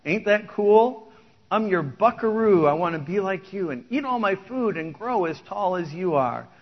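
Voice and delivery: beam with pride at dad; a little boy bragging he is like his dad; proud little boy. Acted. Son's proud chorus reply.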